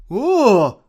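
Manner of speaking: loud, high exclamation; cried out. A narrator's reading. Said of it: "vykřikl generál Fink".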